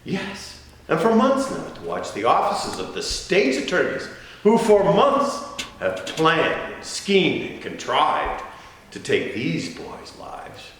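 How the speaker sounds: high, indignant oratory; outraged accusation. Acted. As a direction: hurl the charge back at the prosecutors. Outraged accusation against the prosecutors.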